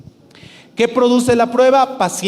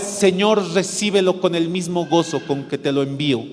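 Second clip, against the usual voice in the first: cita entre risas; 2 semitones lower than usual. Retold or imitated. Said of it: "Ahora es".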